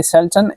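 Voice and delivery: "सल्तन" said carefully as an English word; English pronunciation demo. Shown as a demonstration. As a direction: model the English "सल्तन" for learners. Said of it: "English में इसको कैसे pronounce करेंगे". ("सल्तन" का अंग्रेज़ी उच्चारण)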